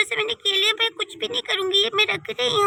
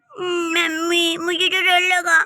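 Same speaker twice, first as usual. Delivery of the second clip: scared whimper; 2 semitones lower, much slower than usual. Acted. Daughter tells mom she was scared.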